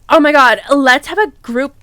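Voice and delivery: loud, eager burst; excited gush. Acted. Teacher excited about a group session, loud and eager. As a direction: blurt it out, thrilled.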